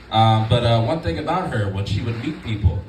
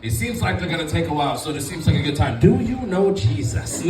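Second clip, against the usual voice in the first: grandma; 7 semitones higher, 4 dB louder than usual. Retold or imitated. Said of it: "she'd be like".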